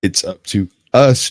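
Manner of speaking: put-on lightly drawn-out Tennessee accent; slow Southern accent. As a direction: stretch every word, Tennessee style. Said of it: "My Southern accent's a little quick for some folks".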